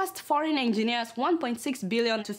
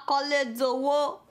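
mock wailing; 4 semitones higher than usual. Mock wail in Yoruba.

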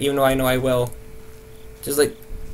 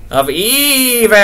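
mock ominous; 7 semitones higher, 3 dB louder, much slower than usual. Ominous repeat, drawn out.

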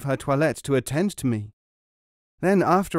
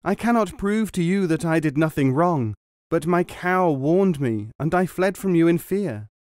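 higher, louder across the river; loud calling out; 5 semitones higher, 3 dB louder than usual. A narrator's reading. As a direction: call across the water, pleading. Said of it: "called out in a loud voice".

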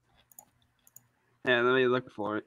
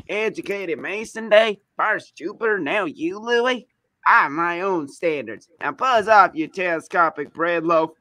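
put-on southern accent; 4 semitones higher than usual. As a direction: play it with a Southern twang. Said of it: "I had to do that southern accent".

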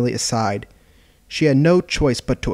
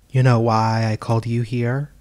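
sly grin. Acted. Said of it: "asked Yukari with a grin".

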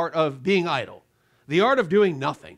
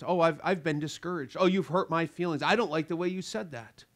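hurt feelings. Pretend. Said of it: "are just".

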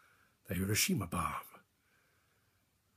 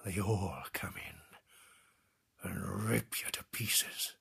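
very slow, breath-heavy near whisper; grim horror; much slower than usual. Acted. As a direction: drag the words out in hushed horror. Recounting men killed by sharks.

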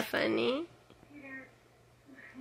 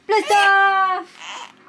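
excited blast off; 6 semitones higher than usual. Pretend. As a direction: shout it like a rocket launch. Rocket play launch with baby.

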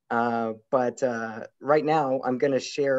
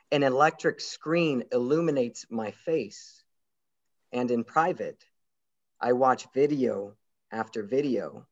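poetry reading. Acted. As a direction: read your poem line by line, letting each phrase land. Reads own poem aloud.

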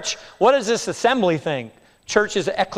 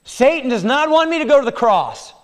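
voicing Christ; 5 semitones higher, 3 dB louder than usual. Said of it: "Peter, you are speaking as Satan".

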